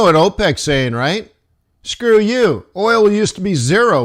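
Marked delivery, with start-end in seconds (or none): 1.8-4.0 higher-pitched defiant retort; acted indignant comeback; mock defiance. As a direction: hit back as a stubborn cartel. Voicing OPEC's defiant retort.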